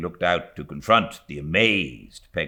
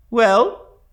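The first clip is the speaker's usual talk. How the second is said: put-on brisk, loud, higher old-lady bark; stern old aunt; 13 dB louder than usual. A narrator's reading. Stern aunt to frightened niece, curt demand. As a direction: demand an answer curtly. Miss Betsy voiced.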